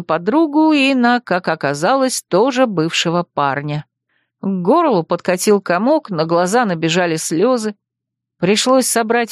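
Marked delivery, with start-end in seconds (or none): none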